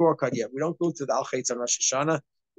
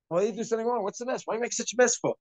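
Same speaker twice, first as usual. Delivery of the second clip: scolding father; 6 semitones higher than usual. Retold or imitated. Preachy father scolding kids at home.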